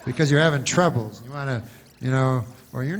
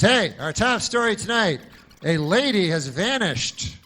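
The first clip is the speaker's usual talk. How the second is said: newsman; 5 semitones higher, 4 dB louder, slower than usual. Retold or imitated. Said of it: "so you know he's a newsman".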